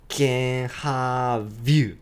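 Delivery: slow "can have you", linked. Shown as a demonstration. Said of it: "つながってますね".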